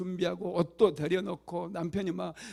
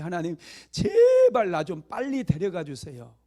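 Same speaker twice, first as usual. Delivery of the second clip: loud pleading prayer, raised voice; desperate plea; 7 dB louder than usual. Retold or imitated. Deaconess begging God aloud, desperate and loud. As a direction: beg God to take you now.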